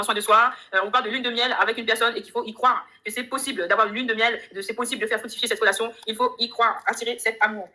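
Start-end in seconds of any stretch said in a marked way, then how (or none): none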